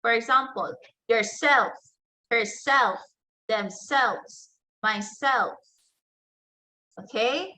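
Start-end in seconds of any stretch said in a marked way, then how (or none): 1.1-5.5 "yourself", "herself", "themselves", "myself" with stress on the self part; stress on second syllable. Shown as a demonstration. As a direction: lean on SELF in "yourself" and the others. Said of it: "receives stronger stress on the second syllable".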